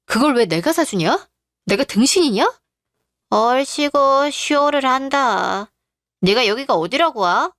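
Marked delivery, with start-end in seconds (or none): 3.3-5.7 slow sneer. Acted. Mocking the ex-fiancé.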